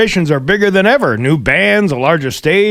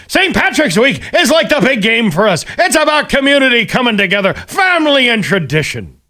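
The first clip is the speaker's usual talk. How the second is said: high, hammed-up Irish leprechaun voice; mock quote in a lilting pitched-up voice; John Sullivan; 5 semitones higher than usual. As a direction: play him like a little leprechaun. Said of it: "Doesn't he sound like that?".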